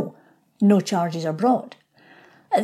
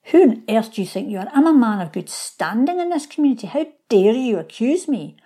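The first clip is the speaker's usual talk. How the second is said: mock indignation; 3 semitones higher than usual. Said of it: "you could turn around and say".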